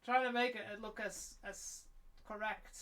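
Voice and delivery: talking through hiccups; hiccuping between words. Real, not acted. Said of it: "I have the hiccups today".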